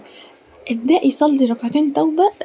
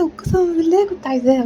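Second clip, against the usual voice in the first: awed whisper; 5 semitones higher than usual. Retold or imitated. Retelling her surprise.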